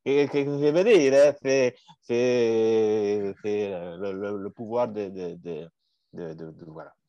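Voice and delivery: put-on a light Spanish accent drifting toward Italian. Friend reads the famous quote in a light Spanish accent. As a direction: play the quote with a hammed-up Spanish lilt. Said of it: "J'ai essayé l'accent espagnol".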